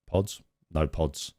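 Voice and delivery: slow, soft musing; slow mock ponder. Man standing at his coffee machine, slow musing. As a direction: puzzle over it slowly. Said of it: "I look at it and I think".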